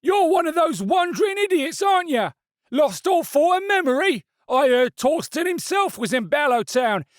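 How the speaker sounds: high, loud sneering threat; menacing stallholder. A narrator's reading. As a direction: taunt her with the reward. Stallholder taunts the woman.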